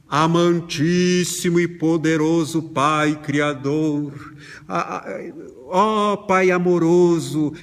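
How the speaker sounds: slow, solemn churchy plea; mock pompous prayer. A son praying to his father like a stiff church prayer. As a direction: pray grandly like a formal preacher. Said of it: "chegando pro pai dizendo assim".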